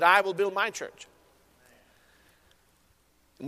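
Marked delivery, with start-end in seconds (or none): 0.0-1.1 I weighted, said softer, falling to rest; softly emphatic I; quiet stress on I. Shown as a demonstration. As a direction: land the word I gently as the final truth. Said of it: "He said".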